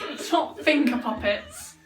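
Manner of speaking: laughing. Real, not acted. Laughing while scolding someone.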